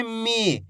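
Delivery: "मी" with a long, held ee; drawn-out long vowel. Shown as a demonstration. Teacher showing learners the big ee sign, "मी" drawn out. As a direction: stretch the vowel in "मी". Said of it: "खींच खींच के पढ़ेंगे".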